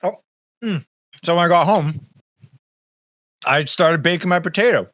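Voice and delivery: talking while eating; words round a bite of food; mouth full. Real, not acted. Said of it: "I'm shooting food everywhere".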